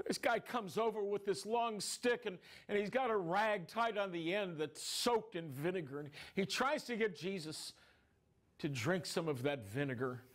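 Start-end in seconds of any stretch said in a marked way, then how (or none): none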